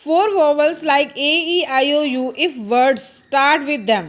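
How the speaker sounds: each word slow and spaced, read to be copied; slow dictation. Shown as a demonstration. Teacher dictating the English rule to children, slow and spaced. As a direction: read it out slowly for notes.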